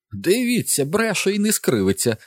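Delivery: high shrill mother's screech; outraged mother shrieking at the boy; shrieking Mrs Dulin. A narrator's reading. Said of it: "заверещала місіс Дулін".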